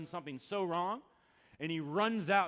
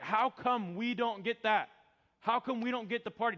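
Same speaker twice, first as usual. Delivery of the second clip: mock whiny grumble, louder; resentful complaint; 8 semitones higher, 8 dB louder than usual. Preacher voices jealous churchgoers, mock resentful grumble. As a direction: grumble like you've been left out.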